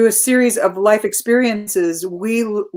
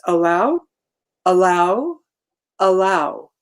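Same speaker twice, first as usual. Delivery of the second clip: mantra; slower than usual. Retold or imitated. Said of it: "my inner voice says".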